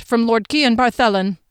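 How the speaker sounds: firm, official delivery; name the sender with formal weight; announcing. A narrator's reading. Corporal says who sent the message, formal announcement. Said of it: "the corporal announced".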